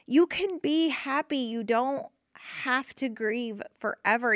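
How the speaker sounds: lifted high, tender encouragement; reassuring. Real, not acted. Reassuring the grieving listener.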